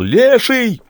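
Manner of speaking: sudden high, piercing yell of fright; terrified yell. A narrator's reading. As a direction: scream out the name of the monster. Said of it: "вдруг заорал". (испуганный пронзительный вопль)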